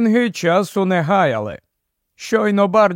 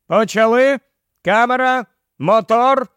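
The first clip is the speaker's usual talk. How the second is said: higher-pitched director's cue; raised-pitch filming commands; director's call; 6 semitones higher than usual. A narrator's reading. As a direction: call the shoot to start, word by word. Director starts the filming on set.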